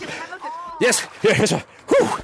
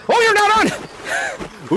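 drawn-out surprise; 9 semitones higher, much slower than usual. Real, not acted. Near miss in tag.

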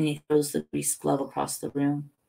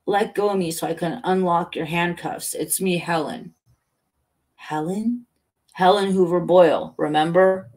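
lightly voiced insistent character; animated, emphatic, a little raised; Helen in cop's body; 3 semitones higher, 5 dB louder than usual. Helen urging recognition through the cop, lightly voiced and insistent.

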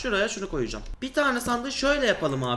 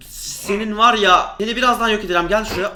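mock threat; 5 dB louder than usual. Real, not acted. Threatening the mob.

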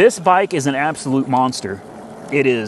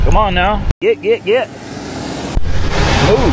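calling out; 4 semitones higher than usual. Real, not acted. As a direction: shout them out of the way. Calling out while riding.

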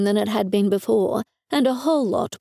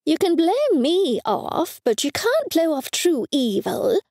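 raised voice; 8 semitones higher than usual. A narrator's reading. Mother scolding her daughter about evil, mildly raised voice. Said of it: "she said in a raised voice".

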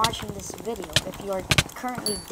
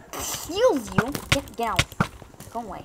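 indignant shooing; 3 dB louder than usual. Real, not acted. Player shooing an intruder in game.

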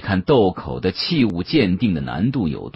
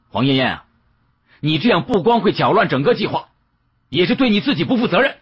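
high-pitched, rushing, agitated reproach; heated scolding; 10 semitones higher than usual. Acted. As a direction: scold her, pitch climbing as you go. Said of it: "看我真的急了".

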